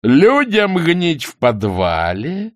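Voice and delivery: high, drawn-out indignation; indignant protest. A narrator's reading. Soldier objects to the cellar. (возмущённо, нараспев)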